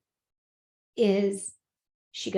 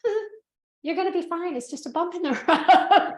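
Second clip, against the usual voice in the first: higher, giggling as she quotes herself; laughing through it; 7 semitones higher, 4 dB louder than usual. Retold or imitated. Retelling her own bold message to a friend, laughing. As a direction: let a laugh break into the last word.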